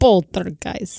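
Poltergeist drawn out slowly in a mock Russian accent. Shown as a demonstration. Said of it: "You have to say it with a Russian accent".

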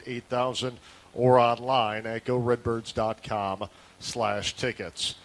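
punchy sports-radio announcer plug, lifted at the start; announcer-style event plug; radio promo read. Acted. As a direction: read it as a game ticket promo, easing down through the phone number. Host reads ticket promo.

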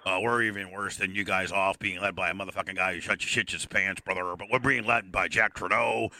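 low, heavy-breathing wrestler voice; Canadian wrestler defending his gimmick, low and breathy. Acted. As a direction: stay in the gruff promo character.

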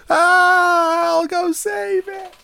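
high falsetto hero voice. Pretend. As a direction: play a cartoon hero, high. Heroic mock voice.

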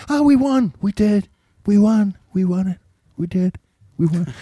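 high, whiny victory claim, tapering off; mock whispery whining. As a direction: imitate a feeble whiner insisting, piece by piece. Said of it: "his whispery whining".

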